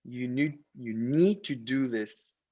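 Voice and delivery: normal talking voice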